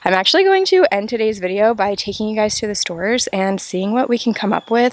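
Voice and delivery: shouting over wind. Real, not acted. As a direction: speak up over gusts of wind. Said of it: "I hope you can hear me through the wind".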